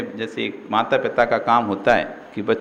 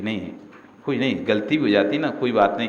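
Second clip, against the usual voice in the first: kindly said; 4 semitones lower, faster than usual. Retold or imitated. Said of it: "वो समझा देते हैं प्यार से".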